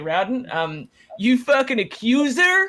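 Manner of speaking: put-on American accent. Doing an american accent on stream because the chat asked for one. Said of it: "in the chat they want an American accent".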